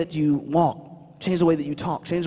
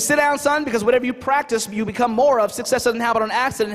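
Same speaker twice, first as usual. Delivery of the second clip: lightly voiced strict mother, higher pitch; a hint of insistent motherly lecture; strict mom; 4 semitones higher than usual. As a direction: imitate mom drilling her sayings. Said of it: "she was very strict".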